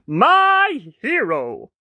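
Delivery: high, loud, drawn-out swoon; adoring prince's cry. A narrator's reading. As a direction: gush it slowly to your rescuer. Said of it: "the prince cried".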